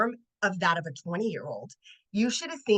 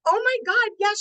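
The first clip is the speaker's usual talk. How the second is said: much higher and louder excited yes; excited reply; 12 semitones higher, 4 dB louder than usual. Retold or imitated. Speaker replying to Carly, retold much higher with excitement. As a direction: squeal your delight at being recognized.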